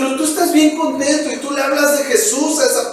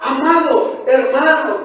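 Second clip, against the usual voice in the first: ordinary delivery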